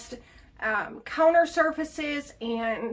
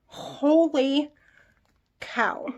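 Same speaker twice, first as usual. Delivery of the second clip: amazed; much slower than usual. Real, not acted. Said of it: "I can't believe this works".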